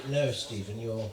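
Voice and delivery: lightly voiced calm posh English accent; reply calmly in a hint of posh English. Posh host calming a freaking-out Australian, calm posh English. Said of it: "He has that posh English accent".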